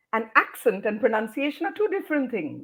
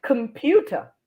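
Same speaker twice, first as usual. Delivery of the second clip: "computer" as kum-PYOO-ter; short COM, lifted PYOO in "computer"; correct stress. Shown as a demonstration. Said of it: "So it's computer".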